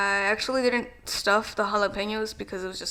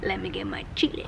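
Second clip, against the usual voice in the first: whisper. Real, not acted. Whispered aside.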